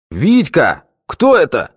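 bossy shout. A narrator's reading. Fat boss calling to Vitka at the gate, bossy shout. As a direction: call out like the lord of the place. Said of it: "начальственно крикнул толстяк".

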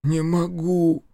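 high, slow, strained rasp; hoarse, drawn-out desperation. A narrator's reading. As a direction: wheeze it out with great effort. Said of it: "прохрипел спящий".

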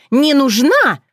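high, loud furious cry; shouting. Acted. Otrada chasing Bogdan, shouting. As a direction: yell while chasing him. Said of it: "кричала она".

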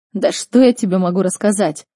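mild nervous protest; nervous reply. Acted. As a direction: answer defensively, a bit rattled. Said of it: "нервно ответил огневик".

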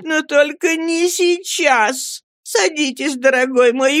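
high, distressed woman's voice; high emotional entreaty; tearful pleading. A narrator's reading. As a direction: implore him tearfully, pitched well up. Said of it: "закричала вся в слезах миссис Гумидж".

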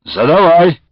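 unfriendly, loud "go ahead"; curt invitation. A narrator's reading. Platov coldly permitting the old man's question, curt. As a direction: grudgingly tell him to ask. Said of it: "не слишком ласково пригласил Платов".

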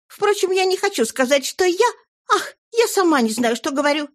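high, fluttery chatter; gushing lady. Acted. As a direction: gush like a flustered old flame. Flora's gushing speech.

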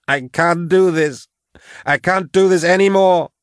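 weep it out, giving up; sobbing despair. Acted. Patience breaking down in tears, hopeless.

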